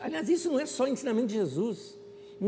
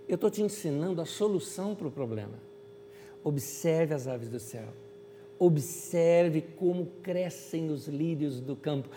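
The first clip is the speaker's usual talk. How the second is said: lower, softer serene reply; calm answer; 3 semitones lower, 4 dB quieter than usual. Acted. Jesus answering the complaining woman, calm and serene.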